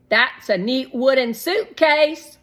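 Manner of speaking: put-on high, loud eager little boy; little boy Shake. A narrator's reading. Shake to Mom about paint box, eager high boy voice. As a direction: bounce up into a bright kid voice.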